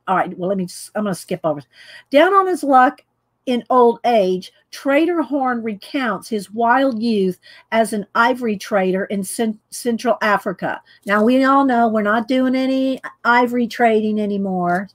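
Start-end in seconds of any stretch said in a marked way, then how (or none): 2.1-10.8 reading voice. Shown as a demonstration. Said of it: "Let me get in a reading voice".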